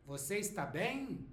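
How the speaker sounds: "bem" swung up and down as a question; question intonation. Shown as a demonstration. Teacher repeats the question for learners, question intonation. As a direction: curve the tune over "bem". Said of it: "Pay attention to the intonation".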